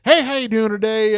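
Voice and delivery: high, loud put-on white voice; white people voice. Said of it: "my white people voice".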